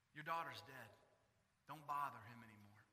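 low, soft, heavy; grim quiet news. Retold or imitated. Servant quietly telling Jairus his daughter is dead. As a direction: break the bad news gently.

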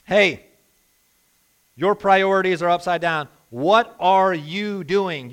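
loud, rebuking apostle, slowing on the question; James scolding. Retold or imitated. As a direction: shake them awake like an apostle. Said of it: "James says in so many words".

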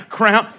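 "Crown" said as one syllable, rhyming with brown. Shown as a demonstration. Pastor to church, mimicking people who say "Crown". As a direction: clip "Crown" to a single syllable. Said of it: "people that say crown".

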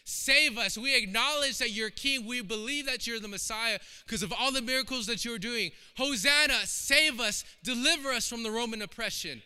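loud, high plea to be saved; crying out. Acted. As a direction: cry out for deliverance. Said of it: "the Jews are literally crying out".

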